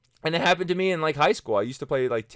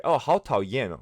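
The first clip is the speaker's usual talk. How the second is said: feminine mom-style Chinese; 3 semitones higher, 4 dB louder than usual. Retold or imitated. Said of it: "that sounds really, like, feminine".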